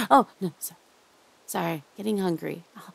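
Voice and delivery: hushed, doting captor who won't let go. Acted. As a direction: lull your captive with creepy tenderness. Holds a soft captor roleplay voice.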